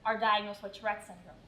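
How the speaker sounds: measured, even narrator read; formal show introduction. A narrator's reading. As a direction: introduce the story like a documentary.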